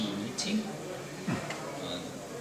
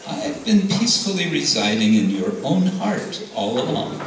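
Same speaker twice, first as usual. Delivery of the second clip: Nrsingadev rebuking; 2 semitones higher than usual. Acted.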